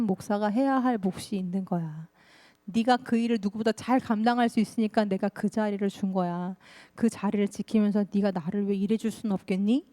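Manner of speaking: lightly voiced God, calm and patient; God's voice. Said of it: "하나님 말씀이 들려와요".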